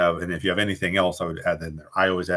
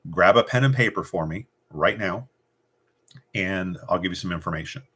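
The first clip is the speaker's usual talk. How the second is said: command. Shown as a demonstration. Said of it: "You're not asking".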